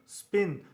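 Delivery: स्पिन with only a weak puff of air on the P. Shown as a demonstration. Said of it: "वीक puff पड़ रहा है".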